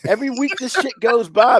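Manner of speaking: real frustrated shout at the TV company; angry outburst. Real, not acted. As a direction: blow up about it every week. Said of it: "you might wanna check your pressure after this".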